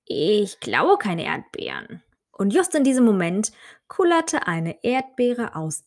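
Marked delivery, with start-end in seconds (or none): 0.1-2.0 slow mumble with a mouth full. Acted. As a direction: mumble through a mouthful of strawberry. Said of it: "Mit vollem Mund nuschelte sie".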